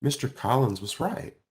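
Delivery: usual speaking voice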